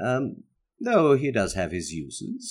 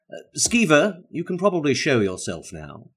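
calling out; 5 semitones higher, 3 dB louder than usual. Acted. Calling the familiar out.

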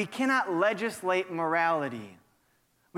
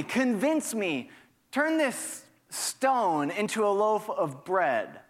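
lightly acted taunting challenge; a touch of mocking accusation; taunting, accusing voice. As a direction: goad them to prove themselves. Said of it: "That is the, the first taunting, accusing voice".

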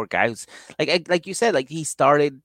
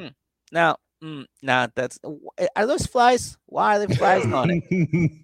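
higher, disgusted mock voice; picky girlfriend; 4 semitones higher than usual. Girlfriend spotting flies on meat, mock disgusted. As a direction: act grossed out by flies. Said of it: "She's like".

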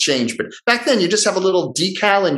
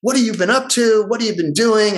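higher-pitched, eager catching up; mild retold enthusiasm, pitched up; friendly interest; 7 semitones higher than usual. Producers asking old colleague for news, friendly interest.

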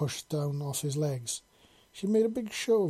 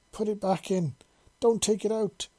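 higher, louder, sharp demand; snarled command; 7 semitones higher, 4 dB louder than usual. Acted. Dominant side takes over, she snarls the order high and loud. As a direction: snap it out like an order. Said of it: "she snarled".

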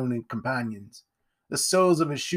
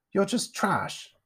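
put-on high, slow, contemptuous child; sneering young bully; scornful little boy; 8 semitones higher, slower than usual. A narrator's reading. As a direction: draw out the insult. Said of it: "the voice of a little boy".

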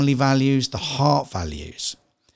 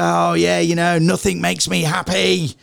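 mild complaint; 4 semitones higher than usual. Retold or imitated. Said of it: "A lot of people say".

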